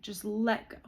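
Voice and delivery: slow, swelling, emotional; overwhelmed with emotion. Real, not acted. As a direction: let the feeling wash over you. Overwhelmed by a wave of release.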